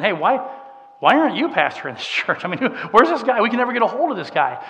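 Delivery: imitating people fed up and asking why; puzzled complaint. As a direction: voice a frustrated churchgoer's complaint. Congregation's complaint voiced in story.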